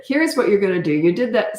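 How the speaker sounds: mildly stern, commanding parent; authority tone. Shown as a demonstration. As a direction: lay down the law, slightly firmer. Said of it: "see that authority tone?".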